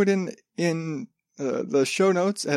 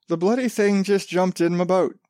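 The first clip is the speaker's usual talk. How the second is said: put-on rough, improvised Australian accent; 3 semitones higher than usual. Quoting the fisherman about the shark, in a rough Australian accent. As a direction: have an off-the-cuff go at Australian. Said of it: "I can do a better Australian accent than that".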